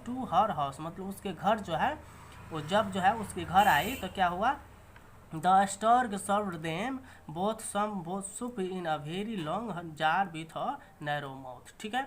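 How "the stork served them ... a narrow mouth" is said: reading the English sentence very slowly, word by word; slow read-aloud. Shown as a demonstration. Teacher reading the story line to students, slow and deliberate. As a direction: spell it out slowly for learners.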